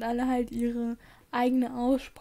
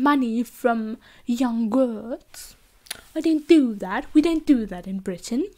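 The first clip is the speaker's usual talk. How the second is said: attempted British accent. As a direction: play a polite British gentleman, imperfect accent. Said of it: "that I totally can't do".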